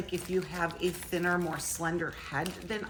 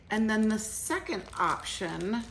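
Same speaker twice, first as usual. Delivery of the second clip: normal talking voice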